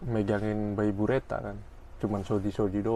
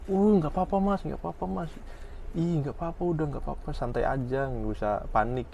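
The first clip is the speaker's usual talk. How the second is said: reassuring; 4 semitones higher than usual. Retold or imitated. A polite stranger forgives an accidental bump, reassuring. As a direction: gently wave off the accident. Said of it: "Biasanya, biasanya gini".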